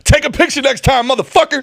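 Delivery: laughing jab. Pretend.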